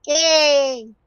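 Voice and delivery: high, drawn-out cheer. Real, not acted. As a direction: let out one long high whoop. Mock cheer.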